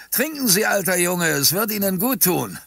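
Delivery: high, hearty urging; cheerful call. A narrator's reading. Shopkeeper offering water for the camera, cheerful call. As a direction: urge him on with a broad smile. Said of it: "rief er mit breitem Lächeln".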